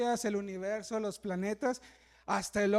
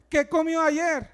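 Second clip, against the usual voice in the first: asking the congregation; 3 semitones higher, 6 dB louder, slower than usual. Retold or imitated. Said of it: "Si yo le pregunto a usted".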